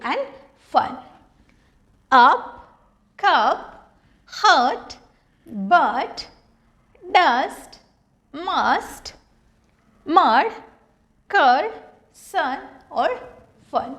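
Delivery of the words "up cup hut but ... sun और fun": each word said with a clear short "a" vowel, "Up", "cup", "hut"; short u sound demo. Shown as a demonstration. Teacher reads a word list to students, clear short vowels. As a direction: read the list slowly, one word at a time, with the short vowel. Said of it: "तो ये तो थे यू के अ pronunciation".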